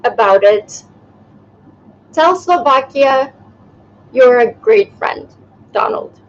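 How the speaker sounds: half-hearted Trump voice; Trump impression. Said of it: "a squiggly note, saying".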